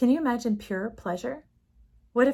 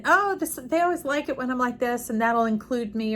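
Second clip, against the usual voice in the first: people-pleasing inner voice; 3 semitones higher than usual. Retold or imitated. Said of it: "or thinking".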